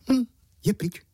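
high, loud gloating goblin; gleeful imp. A narrator's reading. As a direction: rub your hands and gloat. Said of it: "zamnul si ruce".

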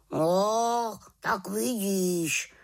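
high, slow told-you-so croak; croaking raven. Acted. Raven croaks at frozen witch, smug. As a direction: croak it out smugly. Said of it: "krákal Havran".

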